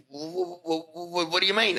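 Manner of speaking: very high mock stammering; imitated stutter. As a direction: imitate a boss stuck on the first word, thrown off. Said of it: "That's how he said it".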